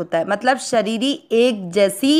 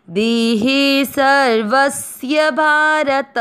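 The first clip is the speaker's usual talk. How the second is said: slow, raised, chanted Sanskrit verse; shloka recitation; 2 semitones higher, much slower than usual. Shown as a demonstration. Teacher recites the Gita verse for learners, slow chant. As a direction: intone the verse slowly and clearly.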